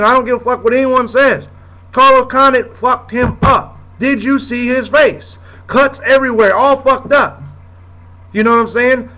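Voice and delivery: real exasperation, hammering the point home; angry rant. Real, not acted. Host ranting at whining fans, heated and angry. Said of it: "I'm sorry for ranting like this".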